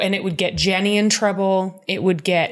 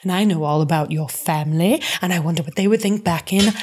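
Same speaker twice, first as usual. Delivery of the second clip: sly threatening Geneva. Retold or imitated. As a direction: savour each word of the threat. Reads Geneva's blackmail threat.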